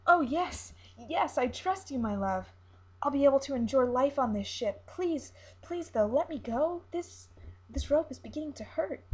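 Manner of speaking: high, loud, pleading siren. Acted. Siren tied in rope begging the captain to free her, high and loud. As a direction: beg to be let go, pitched well up.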